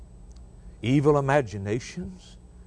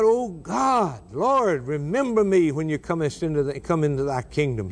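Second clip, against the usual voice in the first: dying thief's cry; 2 semitones higher than usual. Retold or imitated.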